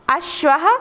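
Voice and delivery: teacher demo of अश्वः ending in h; Sanskrit pronunciation. Shown as a demonstration. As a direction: sound the visarga of अश्वः as h. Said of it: "मेरे साथ आप भी उच्चारण करिए".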